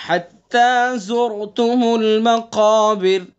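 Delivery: very slow recitation, stopping on المقابر with a thin باریک را; teacher models the stop form; light ra at stop. Shown as a demonstration. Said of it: "باریک،".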